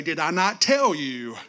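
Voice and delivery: a hint of God pressing you, whispered end; God grabbing your attention. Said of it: "grab you by the face, and say".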